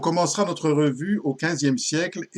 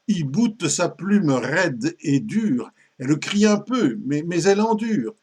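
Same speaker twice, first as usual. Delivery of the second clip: animated, slightly raised storytelling in verse; récitation de poème grivois; 2 semitones higher than usual. A narrator's reading. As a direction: recite the bawdy tale with relish. (récit en vers, déclamé avec entrain)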